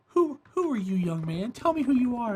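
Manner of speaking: lightly voiced puzzled old man; a hint of an elder not recognizing someone; confused grandfather. Grandfather asking young man who he is, mildly puzzled. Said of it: "he'd look at you".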